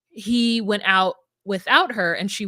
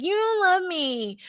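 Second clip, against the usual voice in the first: mock upset; 10 semitones higher than usual. Imitating upset girlfriend accusing her partner, mock hurt. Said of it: "she's so upset".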